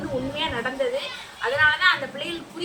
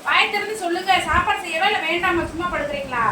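higher, insistent demand; mildly cross, pitched up; impatient scolding; 3 semitones higher than usual. Acted. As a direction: press a silent child to answer. Acted impatient demand for an answer.

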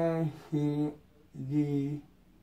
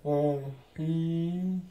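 groggy from anesthesia. Real, not acted. Groggy patient slurring nonsense.

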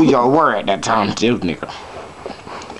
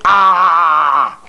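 drawn-out "ah"; 3 semitones higher, 4 dB louder than usual. Acted. Shows his teeth to audience.

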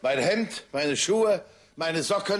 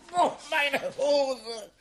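surprised; 7 semitones higher than usual. Acted. Gets splashed by the dog.

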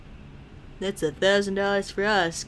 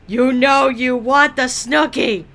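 loud mock seductive; 5 semitones higher, 7 dB louder than usual. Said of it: "Whispers seductively".

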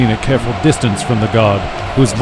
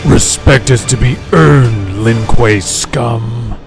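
slow growling disembodied voice; unearthly voice; slower than usual. Acted. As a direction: growl it slowly from the dark. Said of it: "a disembodied voice growls".

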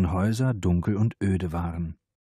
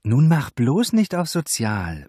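grumbling; 8 semitones higher, 7 dB louder than usual. A narrator's reading. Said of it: "maulte die Adjutantin".

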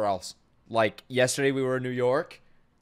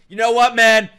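laughing through pain; 4 semitones higher, 5 dB louder than usual. Real, not acted. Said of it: "It hurts to laugh".

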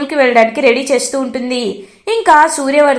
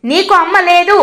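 curt, a touch of harsh scolding; lightly voiced irritation, cut him off; father curtly silences his son's questions, mildly harsh; rude; 3 semitones higher than usual. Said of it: "రూడ్గా చెప్తాడనమాట".

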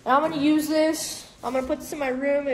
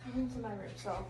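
hushed secret talk; 11 dB quieter, faster than usual. Real, not acted. Sneaking sister in, secret.

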